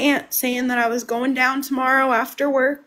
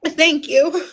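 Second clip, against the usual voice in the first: emotional; 2 semitones higher than usual. Real, not acted. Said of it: "I'm very emotional".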